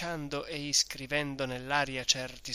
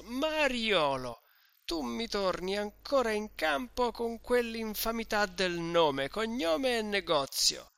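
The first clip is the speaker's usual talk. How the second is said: indignant; 8 semitones higher than usual. Acted. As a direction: rail at the host, offended. Drunk Renzo accusing host. (accusa ubriaca e indignata, più acuta)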